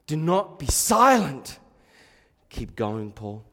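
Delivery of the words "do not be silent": slow, loud, emphatic correction of the verse. Shown as a demonstration. Preacher correcting the false verse to the congregation, slow and loud. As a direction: boom it out slowly, every word weighted. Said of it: "He says".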